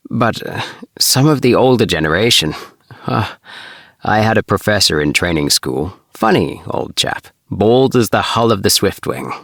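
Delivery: a hint of fond chuckling nostalgia; Ring's voice. Ring reminisces about his professor.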